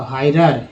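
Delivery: "हायरर" opening on a clear "आई" glide. Shown as a demonstration. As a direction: say "हायरर" as HAI-rar. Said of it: "आई का उच्चारण आई के रूप में हुआ है". ("हायरर" में "आई" का साफ़ उच्चारण)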